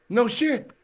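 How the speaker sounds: high, loud, laughing blurt; acted-out starstruck outburst; starstruck retort. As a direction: blurt it out to a famous idol. Starstruck retort to famous man.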